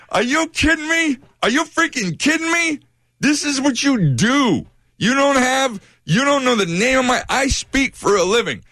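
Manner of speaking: high-pitched, exasperated retold rant; furious rant. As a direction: vent at the dispatcher in disbelief. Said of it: "I was already so furious".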